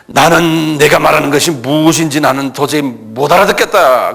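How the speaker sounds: lightly acted con man's denial; swindler's manner of talking. Peter feigning ignorance to the servant, like a swindler. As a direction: play dumb like a con man. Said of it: "사기치는 사람 말하고 똑같아".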